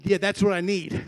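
put-on Kentucky country-boy accent; southern accent. Preacher retelling his cousin's answer, southern accent. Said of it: "I wish I talked like that".

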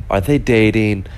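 lightly put-on voice of a gay man; imitated gay man. Turkish man asking German girl about dating, lightly imitated gay man. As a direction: mimic how he sounded, only lightly. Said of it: "That's how he sounded".

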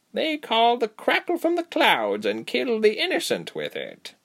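high, intense explanation; high creature voice, dropping at the end; female creature. Acted. Creature warning captives of sky collars, intense.

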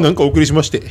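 imitating a cheeky sign-off with a laugh in it; mock-goofy お送りしまして, half laughing; playful sign-off. Host retelling the announcer's goofy sign-off, laughing lightly. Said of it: "ちょけた感じで終わった".

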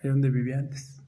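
slow, low, soft narration of a curious fact; lightly put-on storyteller, measured and unhurried; storytelling. Host tells listeners how potosina enchiladas began, storytelling.

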